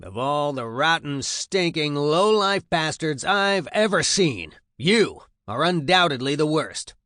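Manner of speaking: loud, high sergeant's harangue; disgusted tirade. A narrator's reading. Sergeant looks over the new recruits, loud disgusted berating. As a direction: tear into them with open disgust. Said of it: "he looks disgusted at what he sees".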